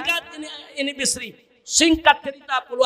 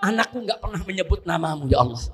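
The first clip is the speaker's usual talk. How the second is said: a mother pleading in prayer, half-shouted and higher; mother's tearful prayer; 3 semitones higher than usual. Acted. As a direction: beg God for your son, voice climbing. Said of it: "ini ibu sujud syukur kepada Allah, mohon".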